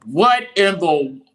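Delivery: slow, high and loud, caught off guard; a drawn-out gasp of disbelief; can't believe the pick; stunned disbelief. Real, not acted. Reacting to draft pick shock.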